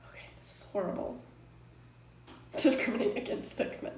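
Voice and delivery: fast, soft, half-whispered; embarrassed whisper; muttered aside. Real, not acted. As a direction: mumble it to yourself. Mortified after a slip.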